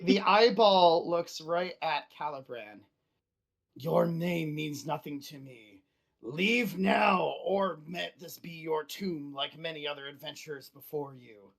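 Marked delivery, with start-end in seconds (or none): 3.8-11.5 menacing monster voice. Acted. Beholder threatens the adventurer.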